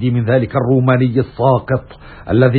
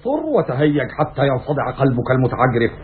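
seething anger; 2 semitones higher than usual. Acted. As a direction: throw it back, pitch up. Brutus answers Cassius defiantly.

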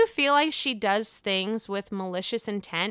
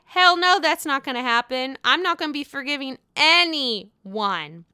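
defiant refusal; 3 semitones higher than usual. Retold or imitated. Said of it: "Giselle's like".

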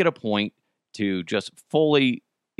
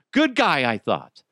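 sarcastic; 3 semitones higher than usual. Real, not acted. Repeating it sarcastically to the audience about Stokely.

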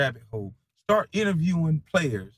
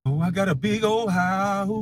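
higher, sneering mock of critics; 5 semitones higher than usual. Streamer mocks critics bragging about a house, snide. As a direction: parrot them in a snide voice.

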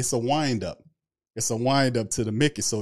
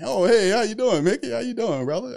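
much higher, louder overeager hey; Mickey Loomis impression; 10 semitones higher, 3 dB louder than usual. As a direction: greet back with a big high wind-up. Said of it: "you turn Mickey on".

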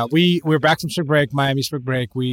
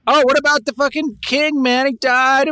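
higher, hammed-up English bloke accent; mock English accent; 13 semitones higher, 3 dB louder than usual. Joking with friends about London in a mock English accent. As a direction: play a cartoon Londoner mourning the king. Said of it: "English accents".

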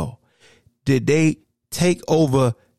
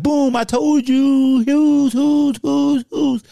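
loud, slowed gloating shout of a fair-weather fan; mock the fan who brags only after the win; 10 semitones higher, 4 dB louder, much slower than usual. Fan finally bragging about the win, loud mocking shout. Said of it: "and then be like".

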